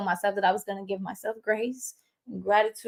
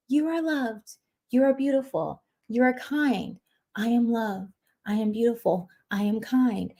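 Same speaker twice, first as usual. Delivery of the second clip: gentle, soft affirmation voice, a bit softer; 3 dB quieter than usual. Shown as a demonstration. Affirmation channel host soothing her listeners, soft and gentle. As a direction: soothe the listener with each line. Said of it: "the soft affirmations of".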